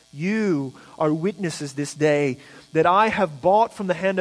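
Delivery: measured, solemn reading of the text; scripture reading. Acted. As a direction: read Boaz's vow to the elders with weight. Reads Boaz's speech from scripture.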